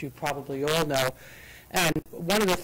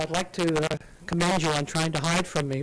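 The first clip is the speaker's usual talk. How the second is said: ordinary talk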